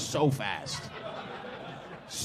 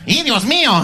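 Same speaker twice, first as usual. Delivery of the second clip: loud, high "Ay, Dios mío" cry; mock panic before he bolts; hammed-up Spanish gasp; panicked dad; 9 semitones higher, 11 dB louder than usual. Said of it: "the dad was like".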